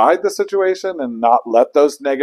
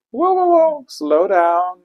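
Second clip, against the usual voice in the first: mock alarmed whoa; 10 semitones higher, 7 dB louder, slower than usual. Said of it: "stop and say".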